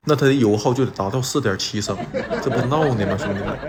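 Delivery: laughing while talking. Real, not acted. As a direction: chuckle through the words. Laughing at absurd figures.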